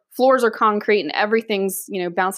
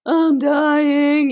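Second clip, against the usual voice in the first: loud, higher wail of agony; overacted death throes; playing up dying; 5 semitones higher, 4 dB louder than usual. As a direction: ham up a dying casualty's cry. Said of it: "playing it up like".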